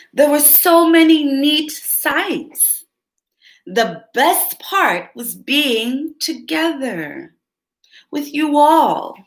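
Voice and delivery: tender Pete. Acted. Pete telling his family the best part, slow and tender. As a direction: savour each word gently.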